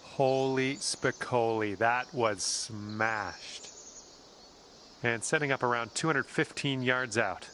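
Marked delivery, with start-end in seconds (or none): 0.0-3.7 amazed. Real, not acted. Reacting to a big drive.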